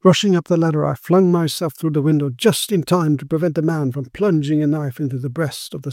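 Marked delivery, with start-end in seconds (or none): none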